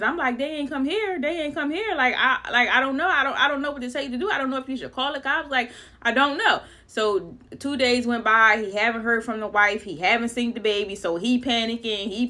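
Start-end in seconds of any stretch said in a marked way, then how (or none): 0.4-6.6 flustered. Retold or imitated. Retelling panicked phone call.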